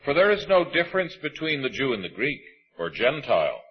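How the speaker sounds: measured, solemn reading of scripture. Acted. Preacher reading Romans to the congregation, solemn and measured.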